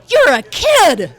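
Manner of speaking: drawn-out, high, very loud mock yell; outraged shout. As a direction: shout it as the duped manager, slow and indignant. Retold manager realizing he was fooled.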